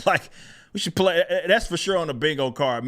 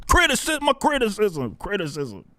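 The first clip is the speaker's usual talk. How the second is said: mocking whine; 6 semitones higher than usual. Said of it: "mocking critics' word".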